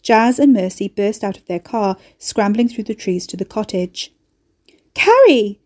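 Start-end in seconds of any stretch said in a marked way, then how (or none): 4.9-5.6 high, loud shriek of her name; screech. A narrator's reading. Mercy screeching for her friend as she arrives. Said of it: "Mercy screeched".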